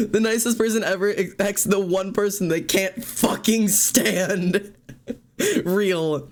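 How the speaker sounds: slow, laughing through the words; real amused laughter in the voice. Real, not acted. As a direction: giggle your way through it. Laughing at trope description.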